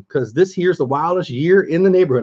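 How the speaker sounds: lightly put-on country voice; attempted country accent. Livestreamer trying out a magazine line, badly faked country accent. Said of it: "I can't do the country voice".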